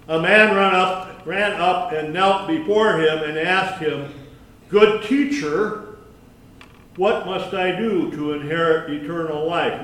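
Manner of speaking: deliberate public scripture reading. A narrator's reading. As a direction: read the passage out to the congregation. Reads the passage aloud.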